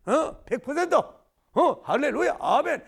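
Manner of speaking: loud, high, hammed-up brave amen; over-the-top triumphant hallelujah; mock bold cheer. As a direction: shout it like a fearless believer. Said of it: "막 씩씩하게 아멘".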